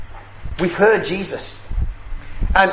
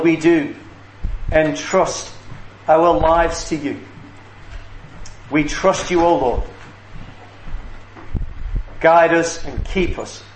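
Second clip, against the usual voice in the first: measured, reverent prayer with long pauses. Real, not acted. Leads a closing prayer.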